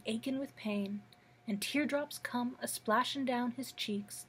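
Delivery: folksy verse recited in a steady lilt; lightly expressive poetry recital; poem reading. Acted. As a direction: lean on the rhythm, pause at line ends. Reads second Guest poem aloud.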